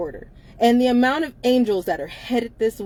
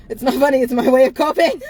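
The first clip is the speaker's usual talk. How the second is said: holding back tears; 4 semitones higher, 8 dB louder than usual. Real, not acted. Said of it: "I'm trying not to cry".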